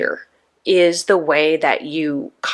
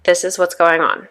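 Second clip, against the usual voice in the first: calming. Retold or imitated. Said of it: "someone to come in and say".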